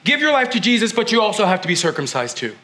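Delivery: lightly patronizing the Gentiles; a hint of smug insistence; mock Judaizers. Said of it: "these Judaizers were saying".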